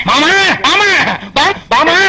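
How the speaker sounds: hammed-up mourning cry. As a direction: wail over the dead man. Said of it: "அழாதீங்க".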